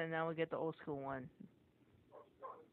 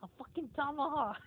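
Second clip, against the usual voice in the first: excited reveal; 9 semitones higher, 4 dB louder than usual. Real, not acted. Revealing friend's weapon.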